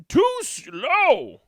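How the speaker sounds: high loud complaint; scolding mom. Acted. Mom rejects sonatina, high loud snap.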